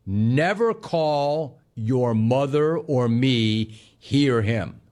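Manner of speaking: slow, firm fatherly warning; a dad who won't tolerate disrespect, slowly and firmly; emphatic dad. Retold or imitated. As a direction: lay down the house rule with weight, slowly. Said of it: "Jay was, like, emphatic".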